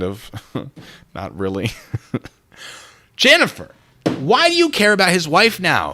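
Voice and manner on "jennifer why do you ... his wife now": mock retort.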